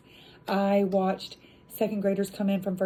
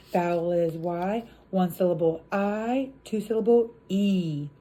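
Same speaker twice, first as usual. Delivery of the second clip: drill call. Shown as a demonstration. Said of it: "You learn the Y".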